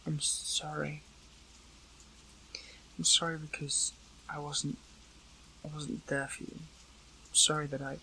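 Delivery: soft, halting apology; remorseful apology. Acted. Apologising for not being there, remorseful and quiet.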